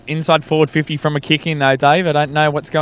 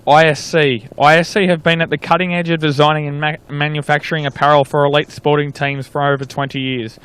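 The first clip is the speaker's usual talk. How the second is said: smooth sponsor read, steady pace. Acted. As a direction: read it like a radio sponsor spot. Sponsor message read mid-broadcast.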